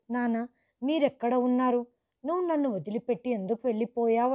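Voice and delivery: a touch of crying, rushed; mild tearful plea. Retold or imitated. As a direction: plead with father, lightly tearful. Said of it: "నేను ఏడుస్తూ". (కొంచెం ఏడుపుతో వేడుకోలు)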